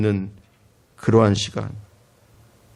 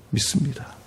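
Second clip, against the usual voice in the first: breathy hushed whisper; whispered amen; 7 dB quieter than usual. Real, not acted. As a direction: drop to a whisper of faith. Hushed close of a point.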